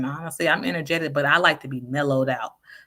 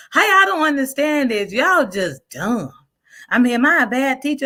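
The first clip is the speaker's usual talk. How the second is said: mock mean teacher; 10 semitones higher, 5 dB louder than usual. Quoting insulting teacher.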